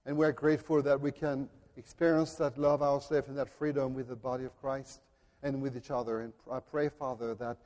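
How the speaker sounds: hushed pastoral prayer; closing prayer. Acted. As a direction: pray quietly to the Father.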